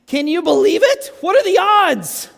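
high, loud, slowing disbelief; rising astonished what are the odds; amazed disbelief. Real, not acted. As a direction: marvel at the coincidence with the crowd. Marvels at the coincidence to audience.

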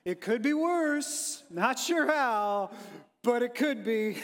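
slow, mopey, resigned; Eeyore voice. Acted. Israel voiced as Eeyore to the congregation, slow and mopey. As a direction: drag it out like gloomy Eeyore. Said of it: "like the proverbial Eeyore".

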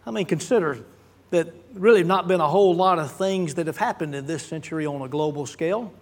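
dry sarcasm, tongue in cheek; deadpan ironic understatement; sarcastic. Real, not acted. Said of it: "that's sarcasm in case you missed it".

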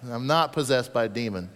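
indignant retort. Pretend. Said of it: "but I'm adding it".

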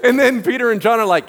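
ordinary talk

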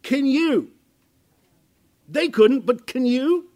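desperate father asking Jesus; pleading question. Acted. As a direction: beg for the help you need. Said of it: "I came and said".

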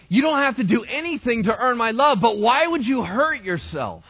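pleading parent. Retold or imitated. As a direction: beg your child to stop hurting themselves. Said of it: "You keep saying".

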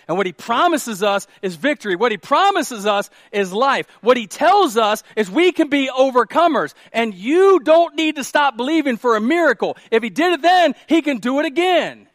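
building to high, loud proclamation; rally the congregation with mounting force; full-force preaching. Real, not acted. Preacher promises victory to believers, full-force preaching.

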